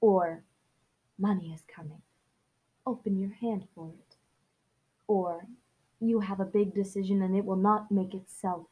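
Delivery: even, measured audiobook read; story narration. Acted. Host reading the novel's prologue to listeners, story narration.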